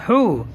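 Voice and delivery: "ہو" with a long oo vowel; hoo pronunciation. Shown as a demonstration. Teacher showing he with pesh above, hoo pronunciation. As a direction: draw out "ہو" as hoo. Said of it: "تو تلفظ ہوگا".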